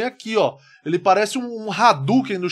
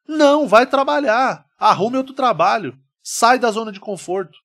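stern shout; 4 semitones higher, 4 dB louder than usual. Acted. Host scolds lazy workers, loud stern order. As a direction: bark it at a lazy worker, then ease off.

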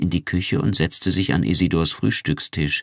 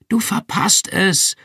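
higher, slow, eager call across the room; excited call; 13 semitones higher, 3 dB louder than usual. A narrator's reading. Irmgard calling Pris to the TV, excited higher call. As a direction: pitch up, urging her not to miss it. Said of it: "rief Irmgard Pris aufgeregt zu".

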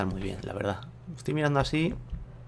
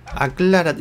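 Aclárate repeated higher and louder; louder self-scolding; 5 semitones higher, 7 dB louder, much slower than usual. Real, not acted. Builder scolding himself, louder Aclárate. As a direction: snap at yourself to decide. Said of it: "majo, aclárate".

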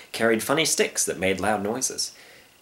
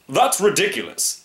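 high, emphatic dismissal; indignant storybook hunter; scoffing hunter; 7 semitones higher than usual. Acted. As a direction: reject it with bluster.

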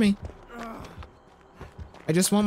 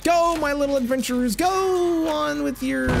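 mock grand send-off; 8 semitones higher than usual. Gamer streaming, blessing the survivors in a mock-grand voice. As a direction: bid the little adventurers farewell, grandly. Hammy narration of killer's burning.

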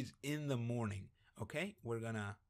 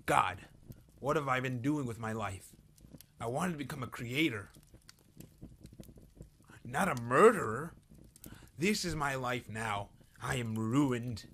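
mock existential despair; 3 dB louder than usual. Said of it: "contemplates his existence".

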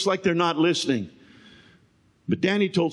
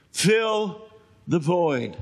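"Fill" pitched up, then a pause before "the void"; stress and pause; much slower than usual. Shown as a demonstration. Preacher driving home "Fill the void" to the church, spaced out.

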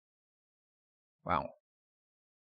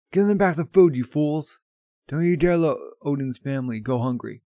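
roaring at his crew, much louder and higher; angry shout; 4 semitones higher, 6 dB louder than usual. Retold or imitated. Whitebeard scolds his crew over the food, furious shouting. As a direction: bellow it like an enraged captain.

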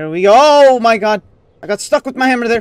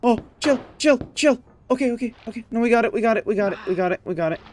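real tense whisper-soft calm; hushed self-calming; 9 dB quieter, much faster than usual. Real, not acted. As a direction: coax it quietly so nothing slips. Calming the controls, near a ledge.

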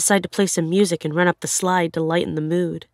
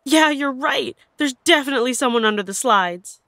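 higher-pitched, alarmed mock yell; mild retold yell; 6 semitones higher than usual. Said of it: "and she yells".

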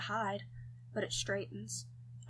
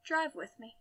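put-on higher-pitched, lightly French-accented invitation; Francis's French accent; 7 semitones higher than usual. A narrator's reading. Francis asks him along for a drive, French accent. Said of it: "That French accent".

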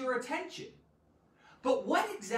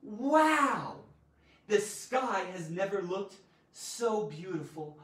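astonished; 4 dB louder, slower than usual. Shown as a demonstration. Teacher showing astonishment at a beautiful sky. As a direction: marvel at the sky.

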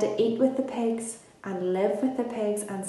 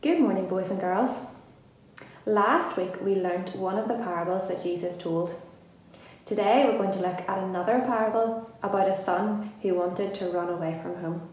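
earnest upbeat school lecture. Acted. Children's address opening.

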